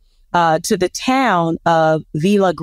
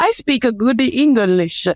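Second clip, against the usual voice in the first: lightly put-on broken English accent; a hint of a mock accent; mock foreign accent; 3 semitones higher than usual. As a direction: play at bad English, hardly shifted. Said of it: "that's a terrible accent".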